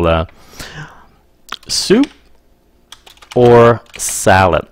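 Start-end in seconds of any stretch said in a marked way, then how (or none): 1.7-4.6 mock waiter question. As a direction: play the waiter offering a choice. Waiter asking at the table.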